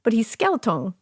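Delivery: put-on matter-of-fact kid saying skeleton as "skel-tone"; lightly French-sounding "skel-tone" for skeleton; child's little accent. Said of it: "she would do this accent".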